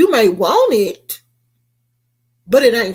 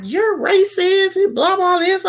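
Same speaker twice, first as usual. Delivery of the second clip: mock Karen; 9 semitones higher than usual. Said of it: "she was like".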